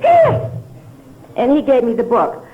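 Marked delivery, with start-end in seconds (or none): 0.0-0.5 very high, loud squeal; imitating an excited, high-pitched call; retold eager shout. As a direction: pipe up like an eager newcomer. Retells answering up at meeting.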